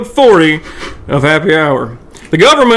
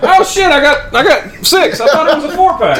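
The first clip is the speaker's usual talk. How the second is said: surprised; 10 semitones higher than usual. Real, not acted. Surprised by six pack.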